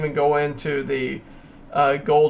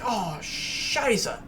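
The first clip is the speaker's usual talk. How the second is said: mock panic; 6 semitones higher than usual. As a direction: freak out as the price drops on the chart. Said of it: "and you're like".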